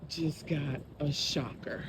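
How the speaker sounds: breathless after a scare; panting lightly between words; out of breath. Real, not acted. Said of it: "let me catch my breath".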